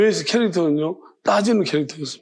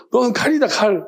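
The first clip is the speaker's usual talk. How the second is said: raised, higher-pitched mock declaration; loud retold call; 5 semitones higher than usual. Calling out to his physics friend, loudly declaring. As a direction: announce it out loud, half-joking. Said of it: "분명히 그냥 큰 소리로".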